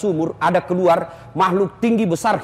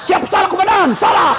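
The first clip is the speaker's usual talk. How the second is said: shouted higher and louder, at the top of the voice; full shout to commander; 9 semitones higher, 4 dB louder than usual. Acted. Policeman yelling his apology back at the commander, shouting. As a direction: bellow it like a panicked soldier at attention.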